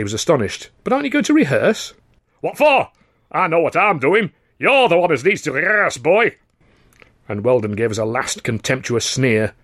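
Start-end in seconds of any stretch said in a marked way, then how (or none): 0.8-1.9 high and quick disbelief; can't believe he's skipping it; astonished. A narrator's reading. Charlie asks the star in disbelief. 2.4-6.3 high, loud, scornful put-down; contemptuous sneer. A narrator's reading. Weldon sneers at Charlie, loud and scornful.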